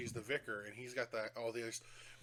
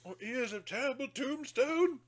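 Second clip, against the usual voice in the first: slow dramatic voice; 10 semitones higher, 3 dB louder than usual. Retold or imitated.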